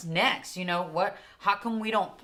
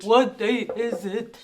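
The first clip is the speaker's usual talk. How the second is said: camel ad voice; 3 semitones higher, 4 dB louder than usual. Retold or imitated. Mimicking the camel ad.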